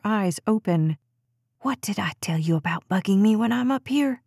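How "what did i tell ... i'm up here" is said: a tight, hushed rebuke to her daughter; mother hissing at her child in church; hissed scolding. A narrator's reading. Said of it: "she hissed".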